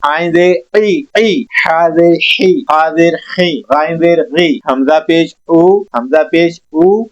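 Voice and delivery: ज़ेर gives ई with a falling voice, पेश gives ऊ with rounded lips; zer and pesh drills. Shown as a demonstration. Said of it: "दोबारा देख लें".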